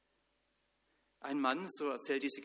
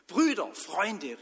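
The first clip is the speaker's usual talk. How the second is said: high, loud, slow call through the window; 6 semitones higher, 8 dB louder, slower than usual. Acted. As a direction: call the friends in. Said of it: "rief er". (Mann ruft laut aus dem Fenster nach Freunden)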